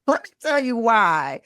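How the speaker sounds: laughing. Shown as a demonstration. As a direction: laugh it out as you repeat the phrase. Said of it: "It's like".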